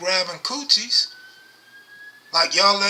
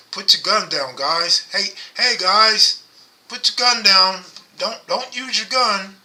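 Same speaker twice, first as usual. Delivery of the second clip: louder pleading call to the streets, half-serious; mock public plea; 3 semitones higher, 5 dB louder than usual. Streamer mock-addressing gunmen in LA, half-serious loud plea. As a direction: pretend to address shooters like a PSA. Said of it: "it sound like a good message".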